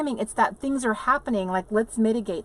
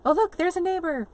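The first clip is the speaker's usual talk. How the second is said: high, hammed-up wonder, building louder; mock excitement; 10 semitones higher, 7 dB louder than usual. Showing viewers her thrilling RV life, mock excitement. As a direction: pretend thrill at dull sights, pitched high.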